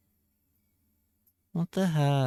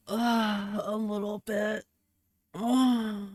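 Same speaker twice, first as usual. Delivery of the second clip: higher and much softer, a small mousy "a little bit"; tiny squeaky voice; 7 semitones higher, 3 dB quieter, slower than usual. Pretend. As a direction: shrink the voice to a timid squeak. Answers, then repeats in tiny voice.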